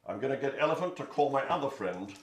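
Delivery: loud bossy lion. Acted. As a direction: hold them off like a king. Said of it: "And Lion said".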